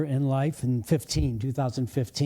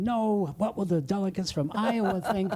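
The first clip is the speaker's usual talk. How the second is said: higher-pitched mock objection; worried campaign staffers; 5 semitones higher than usual. Retelling the campaign's objection to a Playboy Mansion fundraiser, mock worry. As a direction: imitate fretting campaign people, pitched up. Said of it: "the McCarthy people kept saying".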